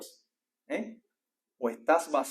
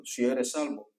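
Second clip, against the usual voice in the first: divine whisper in the ear; 3 semitones lower, slower than usual. Retold or imitated. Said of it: "que Dios se lo diga al oído".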